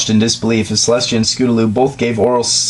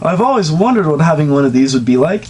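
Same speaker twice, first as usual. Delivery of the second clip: high, delighted filly voice; excited yell; 5 semitones higher than usual. Acted. Scootaloo marvelling at her new body, high delighted voice. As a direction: gush with delight. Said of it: "she yelled out".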